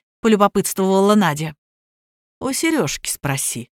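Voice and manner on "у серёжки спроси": quiet smirking reply. A narrator's reading. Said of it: "ухмыльнулся Тёма". (тихо, с ухмылкой)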